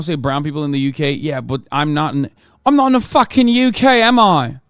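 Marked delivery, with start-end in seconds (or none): 2.7-4.6 high, loud exasperated retort. Real, not acted. Streamer snapping back at chat over UK wording, loud and high.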